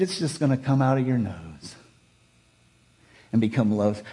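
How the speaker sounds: easy, chuckling, unhurried offer; calm amused God. Shown as a demonstration. Preacher voicing God's answer, calm and amused. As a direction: say it with a knowing, almost playful calm. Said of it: "But maybe God said it like this".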